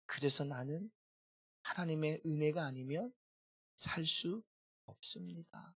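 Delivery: soft, earnest prayer to God; humble prayer. Retold or imitated. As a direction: pray it quietly from the heart. Pastor quotes his own prayer. (하나님께 드리는 조용하고 간절한 기도)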